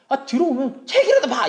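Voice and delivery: high, loud nagging; wife's nagging demand. Acted. Wife to husband coming home, high loud nagging. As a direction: nag at full volume.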